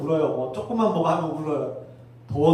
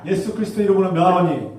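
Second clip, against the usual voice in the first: proclaimed loudly, falling on 이름으로; loud command; 6 dB louder than usual. Shown as a demonstration. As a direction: lead the chant with force. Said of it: "따라하십시오". (크게 선포하는 명령)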